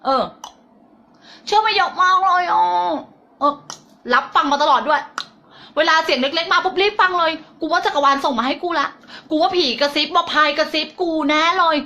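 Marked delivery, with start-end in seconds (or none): 1.5-2.9 mock confession. Mock confession of believing the voices. 5.8-11.8 high, hammed-up conviction; mock gullible believer. Mimics gullible believer in inner voices.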